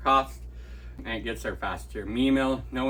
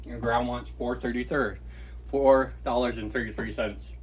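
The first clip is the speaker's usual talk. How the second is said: chewing. Real, not acted. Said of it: "pardon the chewing".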